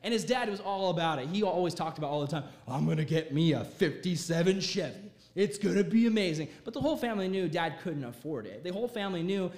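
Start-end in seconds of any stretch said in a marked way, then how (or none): 2.7-6.5 lightly voiced dad dreaming aloud; a hint of a car-crazy dad; excited dad.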